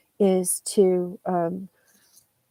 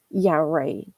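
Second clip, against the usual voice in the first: lower, falling "Yeah, right"; low, offhand "Yeah, right", falling away; dismissive yeah right; 4 semitones lower than usual. Shown as a demonstration. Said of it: "Because someone could say".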